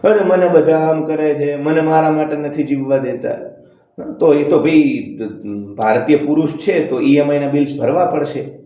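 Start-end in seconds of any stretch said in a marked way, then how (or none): 0.0-3.4 sing-song whine. Retold or imitated.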